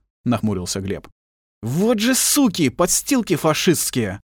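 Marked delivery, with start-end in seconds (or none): 1.6-4.2 slow, high, disgusted curse; contemptuous spit. A narrator's reading. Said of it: "сплюнул Халевич". (медленно и презрительно, с отвращением)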